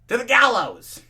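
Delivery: loud, high "To the gallows!"; hammed-up decree; theatrical loud proclamation; mock dramatic shout. Dramatic outburst in reading.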